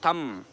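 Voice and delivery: थंब closing on m alone; silent b. Shown as a demonstration. Teacher repeating the rule's example, silent b. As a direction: say थंब as "tham", lips staying shut. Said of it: "वो silent हो जाता है".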